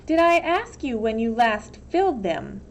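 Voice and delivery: a touch of cold rebuke; stern warden. Acted. Warden rebuking the counselor, lightly stern. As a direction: put him in his place.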